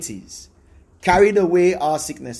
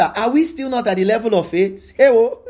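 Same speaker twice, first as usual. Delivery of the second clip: laughing; 4 semitones higher than usual. Real, not acted. Teasing question, bursting into laughter.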